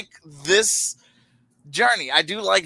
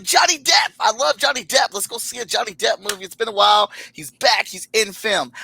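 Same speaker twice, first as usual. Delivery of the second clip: retelling a thrilled reaction to the trailer; excited fan; 3 semitones higher than usual. Retold or imitated. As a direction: gush like a thrilled fan hearing the news. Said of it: "I was excited 'cause I was like".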